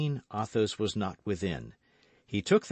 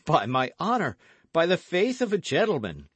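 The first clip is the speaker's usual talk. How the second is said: earnest oath, raised and emphatic; truthful vow; 8 semitones higher, 5 dB louder than usual. A narrator's reading. Guardsman pledges his word to the woman, truthful vow. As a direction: swear it sincerely, lifting voice and force. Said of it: "with an accent so truthful".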